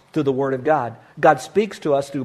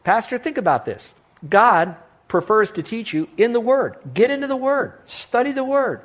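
much higher, urgent preaching as the friend; friend's excited advice; 6 semitones higher than usual. Retold or imitated. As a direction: voice the friend lecturing the pastor with zeal. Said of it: "He says".

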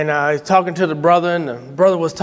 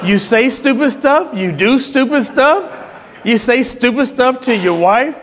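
blunt mock scolding; 4 semitones higher than usual. Son retelling Dad's verdict to a struggling husband, blunt mock scolding. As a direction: play Dad hammering home the verdict, higher each jab.

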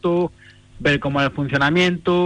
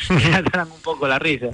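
laughing. Real, not acted. Laughing about easy Spanish stages.

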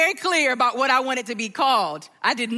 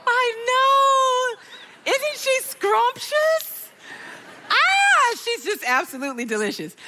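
gushing delight; 12 semitones higher, slower than usual. Real, not acted. Grandmother gushing over granddaughter's photo, squealing.

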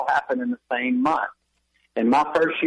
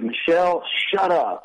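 retold yell; 5 semitones higher than usual. Husband retelling his yell at his wife, mildly angry. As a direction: re-enact an irritated snap at a wife, held back. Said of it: "I yelled at her".

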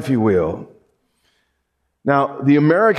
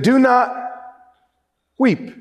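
tender command; 9 semitones higher than usual. Retold or imitated. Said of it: "came to this woman and said".

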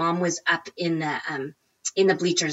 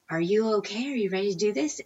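retold whisper; 3 semitones higher, 5 dB quieter, faster than usual. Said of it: "she whispers".

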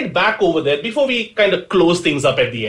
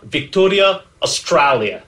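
louder, put-on Australian accent on the place names; 3 dB louder than usual. Real, not acted. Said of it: "went into that accent".

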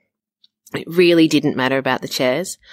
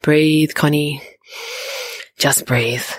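calming herself; slower than usual. Acted. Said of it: "trying to hold back the tears".

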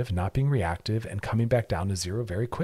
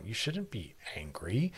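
slow soft whisper; whispered aside; 8 dB quieter, slower than usual. Real, not acted. Host telling listeners not to be angry, slow whisper. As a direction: lean in and whisper it, slowly.

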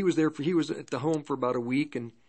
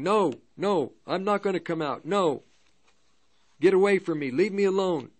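mild mock yell, slightly raised pitch; half-voiced cries of protest, as retold; 3 semitones higher than usual. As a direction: imitate a tormented yell without really shouting. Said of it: "just yelling".

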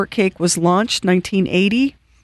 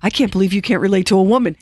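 laughing mock retort; much faster than usual. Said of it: "My ex-husband would be like".

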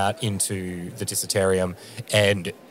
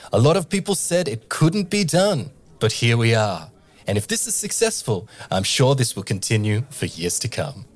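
Tabaxi host voice. Acted. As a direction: gush like a proud emcee welcoming a star guest. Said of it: "And she says".

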